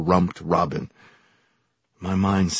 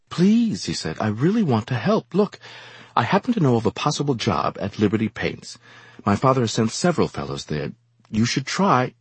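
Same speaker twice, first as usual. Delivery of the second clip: high earnest plea; pleading young man; 6 semitones higher than usual. Acted. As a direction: beg him to accept help. Young gentleman voiced, pleading.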